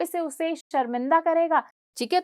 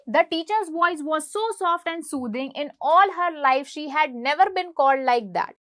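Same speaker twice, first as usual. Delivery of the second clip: slow, clear English read-aloud for students; slow story reading; much slower than usual. Shown as a demonstration. Teacher reading the chapter slowly to her class.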